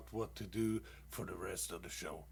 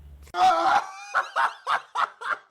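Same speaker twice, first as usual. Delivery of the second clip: big high shouted laugh; loud laugh; 13 dB louder than usual. Real, not acted. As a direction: burst out laughing at his own joke. Laughs at own punchline.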